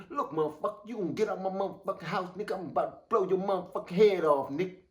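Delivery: menacing threat. Pretend. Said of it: "That's what they wanna hear".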